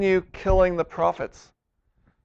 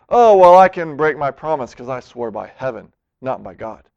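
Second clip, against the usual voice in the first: smug excuse; 5 semitones lower, 4 dB louder than usual. Retold or imitated. Preacher mimicking lawyers dodging their promise, smug and sly.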